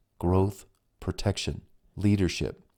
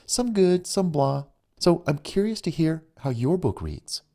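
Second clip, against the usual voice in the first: lightly voiced woman; 4 semitones higher than usual. Female character voiced in story.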